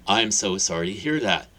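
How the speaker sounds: mean every word of it; emphatic sympathy. Acted. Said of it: "Hagrid uttered emphatically".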